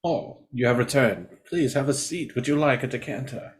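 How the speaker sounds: soft, courteous mock host; gracious monster playing butler; Narg as host. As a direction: welcome a guest with hushed politeness. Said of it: "Narg is like".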